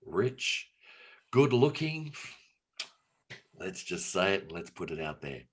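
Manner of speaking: lightly performed mock wedding speech; deliberate, long-paused comic speech building to a drawn-out question; Rowan Atkinson. Parent threatens daughter with a speech, lightly mimicked comic oratory. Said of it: "do the speech by Rowan Atkinson".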